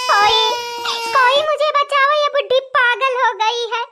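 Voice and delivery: acted alarmed call; hammed-up plea for rescue; cry for help. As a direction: call out for someone to save you. Daughter-in-law calls for help.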